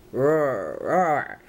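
a light, playful dinosaur growl; lightly voiced roar from a kid; mild growl. A narrator's reading. Little Bill playing dinosaur as he draws, a mild roar. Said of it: "growled little Bill".

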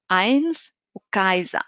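أينس وكايزا said slowly with an eye sound; أينس and كايزا spoken slowly, ei as in eye; German ei sound. Shown as a demonstration. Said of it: "ريت نقول آية".

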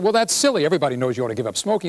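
wife scolding her husband about smoking, lightly voiced. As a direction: brush him off like a sensible wife. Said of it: "She said".

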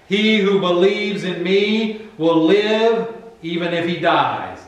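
ringing, emphatic scripture declaration; loud proclamation. Acted. Preacher declaiming Jesus's words on resurrection, loud proclamation. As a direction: proclaim it high and strong, phrase by phrase.

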